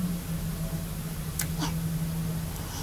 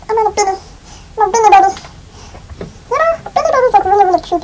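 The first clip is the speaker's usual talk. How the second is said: chipmunk voice; 3 semitones higher, 5 dB louder, faster than usual. Pretend. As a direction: chirp it like a chipmunk. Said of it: "do the chipmunk voice until I end this video".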